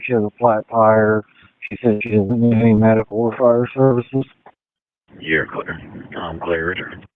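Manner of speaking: police radio. Real, not acted. Dispatcher radio call over scanner.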